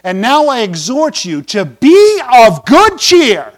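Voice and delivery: slow, measured reading of the verse; scripture reading. Shown as a demonstration. Pastor reading Paul's words aloud, slow and measured. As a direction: read the verse out slowly and solemnly. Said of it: "verse twenty-two of, uh, Acts twenty-seven".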